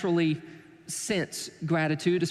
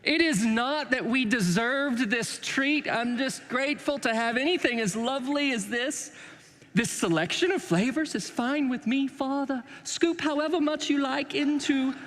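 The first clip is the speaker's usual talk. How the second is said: mock British accent; 5 semitones higher than usual. Children thanking Daddy for ice cream, mock British accent. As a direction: lay on a prim British accent. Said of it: "just not in a British accent".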